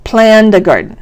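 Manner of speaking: "Planned a garden" with Planned as a single beat; one-beat "planned". Shown as a demonstration. Teacher repeating the phrase for counting, one-beat "Planned". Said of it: "still only one beat".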